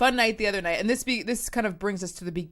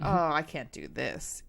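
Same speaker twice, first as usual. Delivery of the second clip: weary dismay; 5 semitones lower, 5 dB quieter, slower than usual. Retold or imitated. Retelling her own dismayed reaction.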